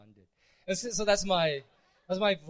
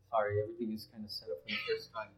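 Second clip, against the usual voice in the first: robotic mic sound; 7 semitones lower, 6 dB louder, faster than usual. Real, not acted. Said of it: "I sound robotic".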